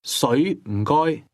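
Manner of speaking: 水 rising, then 唔該 mid-falling to high level; 唔 falls from mid, 該 sits high and level. Shown as a demonstration. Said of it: "please starts with a mid-falling tone and then rises".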